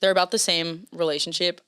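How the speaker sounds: slipping slightly into a British accent; American lapsing into a British lilt; accidental British accent. Real, not acted. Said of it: "I don't know what accent I just said that in".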